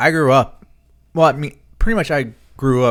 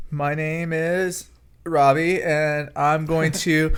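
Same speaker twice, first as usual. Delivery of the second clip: slow, halting nervous student; hesitant first-speech delivery; 3 semitones higher, 3 dB quieter, much slower than usual. Retold or imitated. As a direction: stumble through like a scared freshman.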